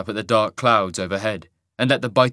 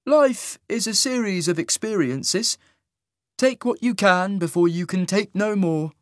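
high, slow, sing-song otherworldly voice; lilting and eerie, drawn out; 10 semitones higher than usual. A narrator's reading. Isaac's voice.

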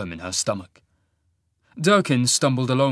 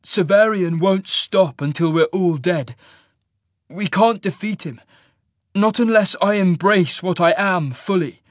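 raised, louder, grim insistence; grim resolve; 7 semitones higher, 5 dB louder than usual. A narrator's reading. Cole explaining to Sasha why he must change, grimly. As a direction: press the grim case firmly. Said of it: "Cole replied grimly".

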